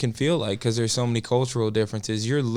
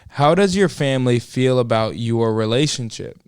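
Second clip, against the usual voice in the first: put-on Southern accent; 5 dB louder than usual. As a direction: read the question in a playful Southern twang. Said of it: "I'll read the next question in a Southern accent".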